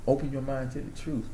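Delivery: softly repeated slogan; trying out a quote. Real, not acted. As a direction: say it quietly, savoring the phrase. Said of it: "That sounds like a quote".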